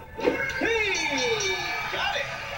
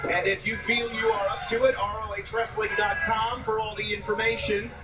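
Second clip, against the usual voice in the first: promo read in a lower voice; 8 semitones lower than usual. Acted. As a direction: read the plug like an announcer. Tryout camp promo read.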